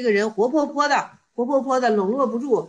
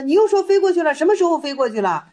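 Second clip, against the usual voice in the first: raised, pointed questioning; acted challenge; 4 semitones higher, 4 dB louder than usual. Master challenges disciple about the flown ducks, pointedly. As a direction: challenge him in a higher, louder voice.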